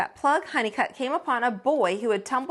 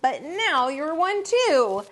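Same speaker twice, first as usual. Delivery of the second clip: singsong repeating; 4 semitones higher than usual. Acted. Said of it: "there came Plug saying".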